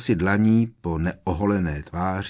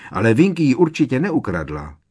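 high, insistent protest; shrill voice; 5 semitones higher, 7 dB louder than usual. A narrator's reading. Hermiona to Sirius, defending Winky: high shrill protest. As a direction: Hermiona objects shrilly, voice pushed higher. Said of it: "ječivým hlasem".

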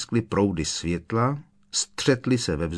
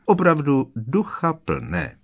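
mock the laughing girls with acid irony; sarcastic; 6 semitones higher, slower than usual. A narrator's reading. Hermione sneering back at Pansy's gang, sarcastic. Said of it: "řekla Hermiona uštěpačně".

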